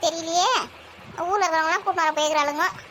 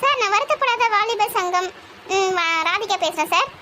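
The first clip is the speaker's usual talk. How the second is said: raised, drawn-out phone call; loud phone voice; 2 semitones higher than usual. Acted. Group leader phoning sir on poor signal, loud phone voice. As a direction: call slowly into a bad line. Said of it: "அதான் கத்தி கத்தி பேசுறேன்".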